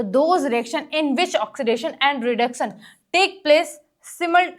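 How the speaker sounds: word-by-word classroom dictation; teacher dictating notes; slow dictation. Acted. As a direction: spell out the definition slowly for copying.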